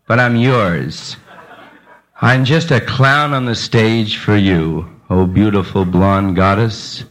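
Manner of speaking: slow, hammed-up swooning devotion; a touch of the lovesick clown, drawn out; laying it on to the beautiful blonde, mock tender; mock romantic.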